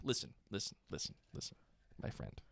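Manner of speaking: mock New York accent. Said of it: "Can you imagine a New York accent?".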